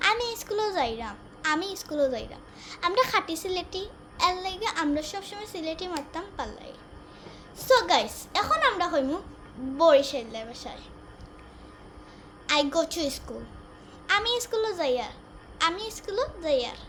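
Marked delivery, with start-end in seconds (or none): 0.1-2.4 Sylheti dialect. Shown as a demonstration. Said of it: "এটাকে সিলেটি ভাষায় বলে". 14.2-16.8 Barishal dialect. Shown as a demonstration. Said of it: "এটা হইল guys বরিশালের ভাষা".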